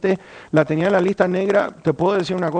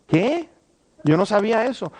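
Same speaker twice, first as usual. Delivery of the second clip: surprised reply; 3 semitones higher than usual. Retold or imitated. Brother hears surprising confession.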